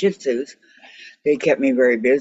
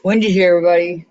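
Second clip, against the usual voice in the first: louder, announcing it to the room; announcing to the whole group that Wendy joined, called out louder; calling out; 4 dB louder, much faster than usual. Real, not acted. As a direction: call it out to everyone.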